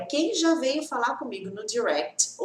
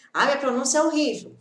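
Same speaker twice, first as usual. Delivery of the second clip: despairing student; 3 semitones higher, 5 dB louder, faster than usual. Retold or imitated.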